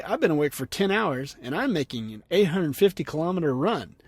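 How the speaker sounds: mock-grateful, with swooping emphasis; sarcastic rant. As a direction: read the complaint as overly polite thanks. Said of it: "He rants".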